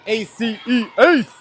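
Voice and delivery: chanted letters bursting into a high, loud last word; celebratory spelling. Real, not acted. Commentator cheering Maddie's ace, excited. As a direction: spell it out, then punch the word.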